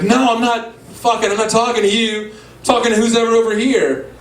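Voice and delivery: mock irritated sister. Locked-out sister talking to someone else, irritated insistence. Imitating sister arguing at the door.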